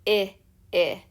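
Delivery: short "I" with a slight smile; short i sound. Shown as a demonstration. Teacher to kids, naming the vowel in ship. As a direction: smile a little on "I". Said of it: "the vowel sound I hear is I".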